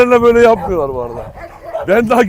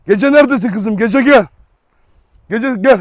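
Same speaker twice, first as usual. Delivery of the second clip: calling a dog; 5 semitones higher, 4 dB louder than usual. Real, not acted. Calling the dog Gece over.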